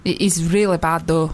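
low, put-on Scottish accent; shaky Scottish imitation. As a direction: grumble in mock Scottish. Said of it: "I can't do Scottish".

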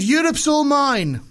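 high, drawn-out comic dictator; Putin. Acted. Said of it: "Okay, I'll be Putin then".

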